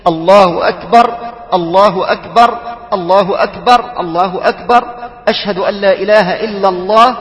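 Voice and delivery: الله أكبر with a pause after each أكبر, ra silent; الله أكبر said as separate stopped phrases. Shown as a demonstration. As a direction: stop at the end of every phrase. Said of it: "سمع موقوفا في مقاطعه".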